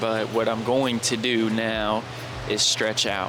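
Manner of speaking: clipped, distorted mic; mic peaking. Real, not acted. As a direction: overdriven mic crackle. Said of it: "why is my mic peaking so bad".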